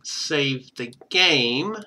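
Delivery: ordinary delivery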